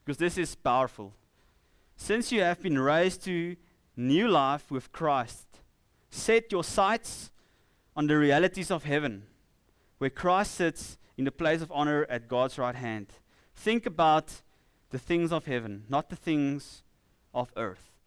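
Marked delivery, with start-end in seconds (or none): 2.0-5.5 slow, deliberate scripture reading with breaks. Real, not acted. Preacher reading powerful scripture to the congregation, slowly. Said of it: "I'm gonna read it slowly". 6.1-17.9 measured scripture reading, pausing after each phrase; slow reading. Real, not acted. Preacher reading Colossians to the congregation, slowly and deliberately. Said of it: "I'm gonna read it slowly".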